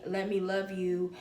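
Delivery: slow, soft pleading; tender. Real, not acted. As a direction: offer it gently and softly. Offering her heart openly.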